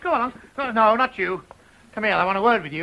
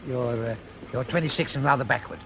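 nervous mumble; 10 semitones lower, 5 dB quieter than usual. Acted. Reciting rehearsed cover story.

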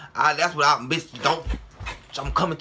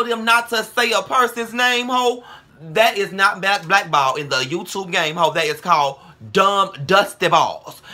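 angry rant; 5 semitones higher, 5 dB louder than usual. Real, not acted. Angry rant about loyalty.

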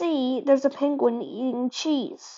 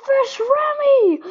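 anguished cry; 13 semitones higher, 6 dB louder than usual. Pretend. Toy swallowed, anguished cry.

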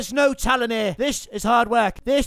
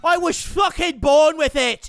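emphatic drawn-out Irish brogue; Irish accent; 3 semitones higher, slower than usual. Acted. Defending his accent to a player, slow indignant Irish brogue. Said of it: "how do I get that accent".

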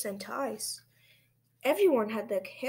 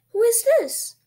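loud, high question to a class; quizzing teacher; 13 semitones higher, 12 dB louder than usual. A narrator's reading. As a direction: call it out as a lively quiz. Teacher quizzes class in guessing game.

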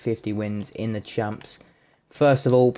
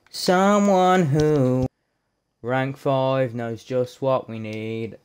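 mock announcer; 3 dB louder, slower than usual. Gamer hyping his pick reveal with a slow mock announcer voice. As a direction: tease the reveal like a trailer voice.

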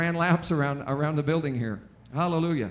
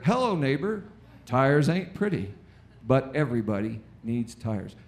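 folksy commercial voice; 3 semitones lower than usual. Retold or imitated. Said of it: "Ten minutes later".

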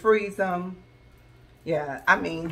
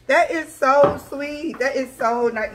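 touched squeal; 7 semitones higher, 6 dB louder, slower than usual. Real, not acted. Touched by the gift.

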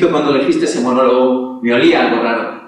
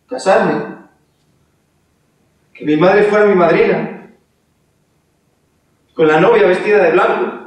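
high, wailing self-pity; hammed-up lament; 6 semitones higher than usual. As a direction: mourn lost virginity melodramatically. Lamento exagerado de víctima. (lamento melodramático agudo)

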